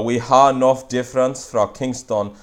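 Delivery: patois sentence, "have" said "ha"; Jamaican patois. Shown as a demonstration. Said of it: "So we have a lot".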